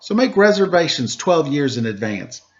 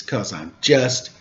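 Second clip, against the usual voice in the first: 1 fading to whisper; 5 semitones lower, 4 dB quieter, slower than usual. Acted. Dramatic build to whisper.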